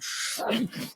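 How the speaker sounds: soft breathy whoosh of flame; imitated flame whoosh. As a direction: make a hushed flame-burst noise. Imitates lancing flame sound.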